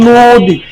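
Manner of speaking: নদী drawn out as "noo-di"; o-like vowel. Shown as a demonstration. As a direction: stretch a rounded o in নদী. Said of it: "অ উকার হবে". (নদীর ন "নো" করে টেনে)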